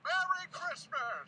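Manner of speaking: loud, high, very slow merry Christmas; joyful greeting. Acted. Reformed Scrooge showing how he should be, loud joyful cheer. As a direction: belt it out with glee. Joke reveal to Bob.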